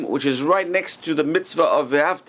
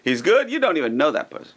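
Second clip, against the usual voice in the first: scoffing. Retold or imitated. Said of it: "people will point out their faults".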